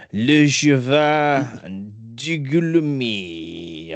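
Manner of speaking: slow, hammed-up French pronunciation; drawled mock French name; mock French accent. Real, not acted. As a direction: sound it out in a fake French accent. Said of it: "I think that says".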